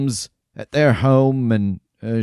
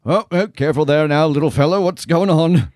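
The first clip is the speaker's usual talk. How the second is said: friendly tavern keeper; 6 semitones higher, 3 dB louder than usual. Acted. Tavern keeper greets old friend.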